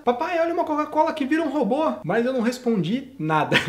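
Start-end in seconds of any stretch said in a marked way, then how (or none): 0.0-1.9 put-on higher, excited child's voice. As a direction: sound like a thrilled little girl. (filha animada mostrando um brinquedo, voz aguda)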